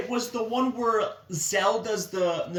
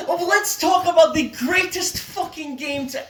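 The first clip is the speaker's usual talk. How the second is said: sarcastic hype; 5 semitones higher, 3 dB louder than usual. Acted. Hammy hype about the game.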